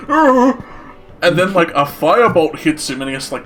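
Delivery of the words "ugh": high acted "ugh" of dismay; startled monster groan. Game master voices the creature as his house shatters, startled groan. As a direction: cry out like a battered boss creature. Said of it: "and he's like".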